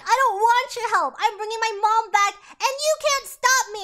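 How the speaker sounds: loud, high defiant outburst, slowing on the last words; defiant yell. Retold or imitated. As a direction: throw their help back at them. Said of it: "and Lydia's like".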